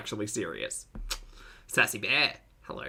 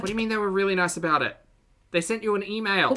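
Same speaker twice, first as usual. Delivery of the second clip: incredulous; 7 semitones higher, faster than usual. Real, not acted. Disbelieving challenge.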